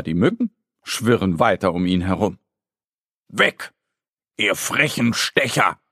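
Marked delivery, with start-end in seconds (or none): 3.3-5.8 understated call at pests. Acted. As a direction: shoo them away, lightly. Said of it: "ruft er ihnen zu".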